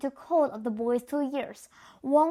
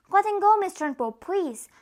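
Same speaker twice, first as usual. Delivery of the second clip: higher, louder begging plea; 7 semitones higher, 4 dB louder than usual. A narrator's reading. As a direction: plead urgently for the boy. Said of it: "begged Miss Honey".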